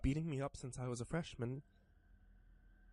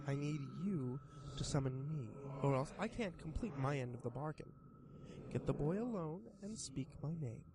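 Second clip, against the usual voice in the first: sly creature voice. Acted. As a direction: tempt him like a grinning demon. Creature sets terms.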